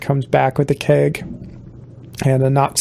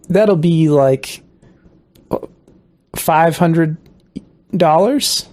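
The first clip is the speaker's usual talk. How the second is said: put-on failed Australian accent; slower than usual. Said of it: "I don't know how to do an Australian accent".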